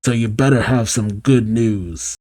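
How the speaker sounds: lightly voiced villain in a bad mood; Eggman. Eggman calling Fang on a bad day, lightly grumpy. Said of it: "It's none other than Eggman saying".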